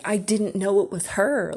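loud, drawn-out protest landing on "her"; defensive protest. Retold or imitated. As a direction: insist on it, stretching "her" in disbelief. Protesting to her mom, retold.

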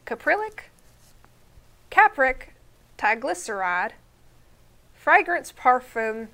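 put-on Southern accent reading ingredients; country accent. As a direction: read the list in a lightly Southern country voice. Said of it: "read these ingredients in a country accent".

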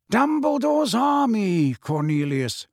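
high, slow, smiling announcement. A narrator's reading. Dumbledore waving the list before Fudge, smiling. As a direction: say it with a smile, lingering on the name. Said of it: "still smiling as he waved".

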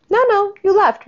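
high, loud mocking no no; sharp high scolding no; scornful rebuke. Real, not acted. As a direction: cut her off in scorn. Scolding the mother.

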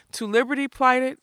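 high puzzled question, unlike the narrator's voice; the giant, stumped, asking. A narrator's reading. Giant fumbling the password.

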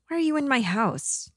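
put-on high-pitched child's question; small boy's plaintive lilt; little boy. A narrator's reading. Ghost boy questions the stranger in his house, high and childlike.

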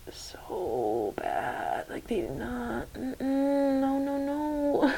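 quiet, half-whispered and choking; can barely get the words out; choked up. Retold or imitated. Recalling the horrible injection sounds, near tears and hushed.

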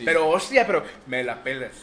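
hammed-up Castilian accent; acento español fingido. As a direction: put on a Spaniard's accent in jest. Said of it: "hablamos como en Castilla". (acento de España exagerado en broma)

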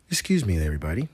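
lightly voiced hard sell ad; mock radio ad pitch; commercial voice. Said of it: "I gotta put on my commercial voice".

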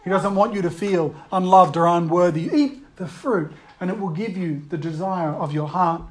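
hushed, tender-sounding temptation; coaxing tempter. Acted. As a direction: lull them with gentle reassurance. Tempter offering love, acted.

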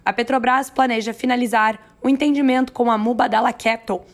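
hoarse news read. Real, not acted. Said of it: "com essa minha voz rouca".

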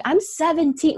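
high, mock-young I'm seventeen; fake teen claim. Retelling the street harasser, she squeaks out a mock-young lie. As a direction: play the kid card to shame him. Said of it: "And then I'm like".

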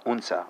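"unser" with the final R melting into "uh"; barely audible R. Shown as a demonstration. Teacher giving German speakers their pronoun, "unser" with silent-sounding R. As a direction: say "unser" as "oon-zuh", no clear R. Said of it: "can't really tell that there's a R".

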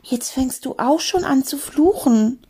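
aghast. Acted. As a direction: scold in mild horror. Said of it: "hauchte Mathilda entsetzt".

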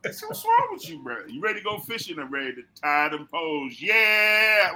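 lightly voiced country buddy; a hint of a laid-back country fella; mild imitation of a folksy friend. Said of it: "sounds like that one country ass friend".

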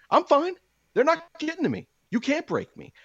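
high, tight falsetto pretending to be fine; mock "I'm fine". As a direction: chirp it out, clearly about to snap. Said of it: "But I'm like".

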